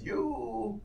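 soft, slow, intrigued murmur; hushed fascination. Acted. Lantern man turns to study a player, softly intrigued. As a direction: slowly marvel under your breath.

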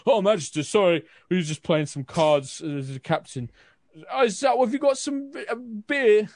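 high, loud tipsy soldier voice; drunken soldier. Acted. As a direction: sound like a drunk caught slacking off. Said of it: "soldiers kind of drunkenly snap to attention".

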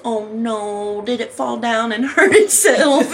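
put-on teasing baby-talk coo; imitating patronizing concern; mock sympathy. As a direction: pretend to pity a little child. Friend babying her, mockingly retold.

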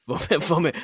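mock French accent, stumbling then laughing. Retrying the teammate's name in mock French accent. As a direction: giggle through a fake French name. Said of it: "I just said Vomer's name in a French accent".

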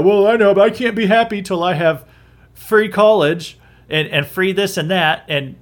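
a light mocking whine. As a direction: whine like a spoiled kid wanting everything free. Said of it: "they'll just whine".

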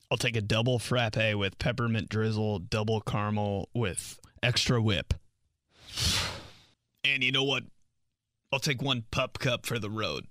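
prissy coffee customer voice; mock fancy order. Mocking a customer's fancy Starbucks order. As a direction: play an over-the-top coffee order.

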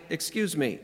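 mock-polite, too calm for danger; overly polite request. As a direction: ask for help as if asking the time. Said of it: "Is that what you do?".

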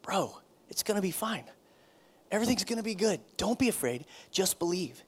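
mean it, you're about to help; sincere reassurance. Shown as a demonstration. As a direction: pastor comforting a struggling friend, sincerely. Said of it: "And I say".

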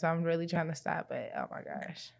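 talking while eating popcorn; words round a mouthful of popcorn. Real, not acted. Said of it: "I should not be eating it while we're recording".

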